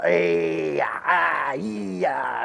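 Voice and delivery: mock shout of nervous yard staff; imitating yard people. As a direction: mimic clumsy handlers startled by the mare. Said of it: "everybody else that walked in there was like".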